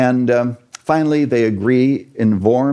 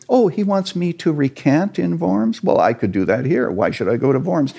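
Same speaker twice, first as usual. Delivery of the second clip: a mocking scoff, the first word jumping much higher; sarcastic Luther; 8 semitones higher than usual. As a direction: toss off the question with sarcastic disdain. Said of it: "One of the things he said is".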